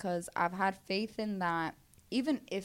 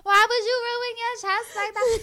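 high, loud incredulous friend voice; 13 semitones higher, 10 dB louder than usual. Retold or imitated. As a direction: scold like a shocked friend. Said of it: "asked me".

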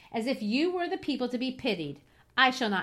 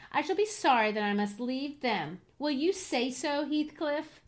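higher, bitter reproach in questions; wounded, bitter dying lover; 4 semitones higher than usual. Acted. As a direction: taunt him bitterly. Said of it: "she continued bitterly".

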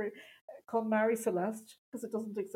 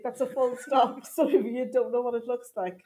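mean teacher; 5 dB louder than usual. Retold or imitated. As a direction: spell out the obvious like a mean teacher. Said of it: "And she'd say".

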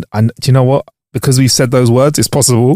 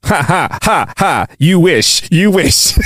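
mock shout; 5 semitones higher, slower than usual. Playing rude assistant, shouted.

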